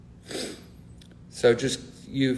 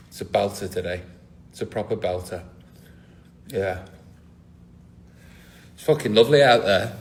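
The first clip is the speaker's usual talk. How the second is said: mock weather report; 4 semitones lower, faster than usual. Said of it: "over to a singer with the, um, weather".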